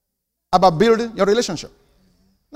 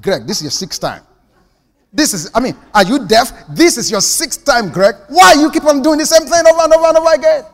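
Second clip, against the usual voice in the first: exasperated scolding; 5 semitones higher, 3 dB louder than usual. Retold or imitated. Wife berating Greg for the sixth offense, building anger. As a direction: nag Greg, losing patience by the end.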